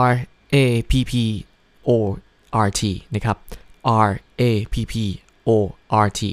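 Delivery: Rapport spelled out letter by letter, each letter named; spelling out. Shown as a demonstration. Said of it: "มันสะกดเป็น". (สะกดทีละตัวอักษร)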